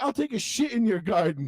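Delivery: high, mock-defiant cartoon threat; Cartman. Cartoon boy threatening the old man, mock defiance. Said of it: "Cartman just, like, shaking".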